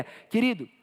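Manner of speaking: normal talking voice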